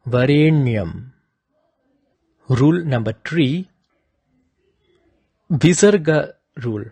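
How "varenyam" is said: slow "Varenyam", tongue on the roof of the mouth for n; deliberate "Varenyam" with retroflex n. Shown as a demonstration. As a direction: draw out "Varenyam" with the n pressed on the palate. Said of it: "contact with the roof of the mouth".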